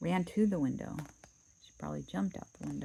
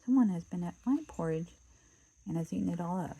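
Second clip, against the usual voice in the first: a hint of a little bear voice; small wee bear; 3 dB louder than usual. Baby Bear finding his empty bowl, lightly small voice. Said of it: "in his small little wee voice".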